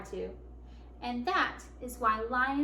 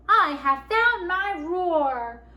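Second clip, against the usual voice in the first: loud, higher, slow proclamation; triumphant cry; 5 semitones higher, 8 dB louder, much slower than usual. A narrator's reading. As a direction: declare it proudly, stretching the words. Lion triumphantly finds his roar.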